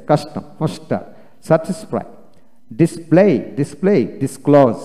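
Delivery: "ডিসপ্লে" with a dental s ending the first syllable. Shown as a demonstration. Teacher showing syllable-final S, "ডিসক্লোজ" with dental s. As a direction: say "মাস্টার" with s, not sh, before the t. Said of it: "এস এর দন্তাস্য হয়".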